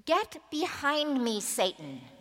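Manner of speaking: "Get behind me, Satan" snapped out, sharp fall on Satan; harsh rebuke. Acted. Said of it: "sounds harsh when we read it".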